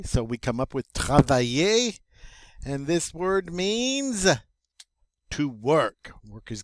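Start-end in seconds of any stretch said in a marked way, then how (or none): 0.9-2.0 "travailler" as tra-va-YAY; double L as Y. Shown as a demonstration. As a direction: model "travailler" with a y glide. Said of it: "pronounced like a Y".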